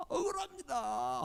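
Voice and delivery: drawn-out, weeping sigh; slow tearful plea. Retold or imitated. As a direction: let it fade slowly through tears. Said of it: "하고 엉엉 울면서".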